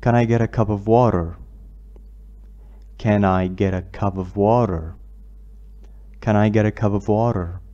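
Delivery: slow, flapped "water"; teacher models "water" as "warer"; measured classroom reading; slow model sentence. Shown as a demonstration. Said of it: "مثال عن المياه".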